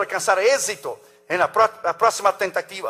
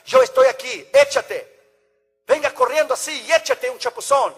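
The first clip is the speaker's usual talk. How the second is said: put-on high, eager call to the boy to jump in; encouraging father; 5 semitones higher than usual. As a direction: cheer the scared son on, pitched up. Padre anima al hijo a tirarse. (padre animando a su hijo, voz alta y entusiasta)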